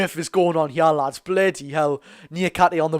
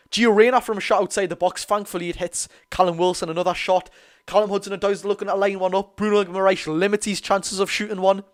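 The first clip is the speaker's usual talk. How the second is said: quick, raised match commentary; live play-by-play; 3 semitones higher than usual. Acted. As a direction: call each shot as it happens.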